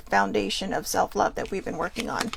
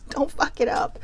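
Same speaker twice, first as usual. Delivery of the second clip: laughing repeat; 3 semitones higher, 3 dB quieter than usual. Real, not acted.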